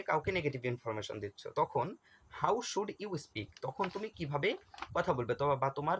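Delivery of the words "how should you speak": slow question read. Shown as a demonstration. Reading exam question aloud.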